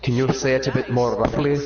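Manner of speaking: Irish priest. Acted. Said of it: "Father O'Brien".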